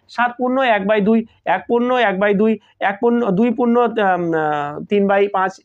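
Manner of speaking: "সাত পূর্ণ এক by দুই" said as "saat purno ek bai dui", whole part then purno, numerator, by, denominator; reading fractions aloud. Shown as a demonstration. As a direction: read each fraction out clearly, pausing between them like a teacher. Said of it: "এই ধরনের করে আমরা উচ্চারণ করি".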